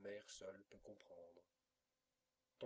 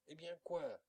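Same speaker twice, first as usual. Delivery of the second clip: réponse criée; 7 semitones higher, 9 dB louder than usual. Acted. Enfant caché répond aux appels.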